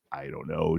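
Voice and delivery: a breathy unvoiced whisper, half to himself; whispered aside. Real, not acted. Rambling about Minnesota, he whispers an aside. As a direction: drop to a whisper as if thinking aloud.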